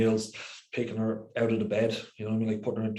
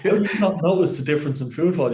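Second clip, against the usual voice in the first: incredulous; 6 semitones higher, 6 dB louder than usual. Real, not acted. Incredulous question to co-host.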